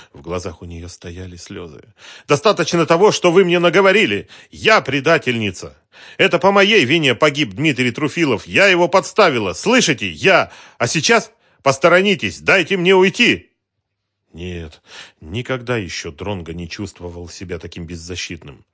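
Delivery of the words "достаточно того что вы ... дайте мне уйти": very high, loud desperate cries; tearful hysterical outburst. A narrator's reading. Armed woman in tears screaming at the detective, hysterical shout. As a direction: scream your guilt through tears.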